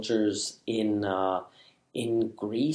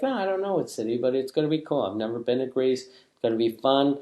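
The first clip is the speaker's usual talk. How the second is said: carefree excitement. Retold or imitated. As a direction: brush it off, happy and clueless. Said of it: "I'm like".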